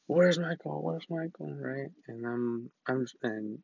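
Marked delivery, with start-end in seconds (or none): 0.1-1.5 frantic calling. Retold or imitated. Girlfriend freaking out at hospital.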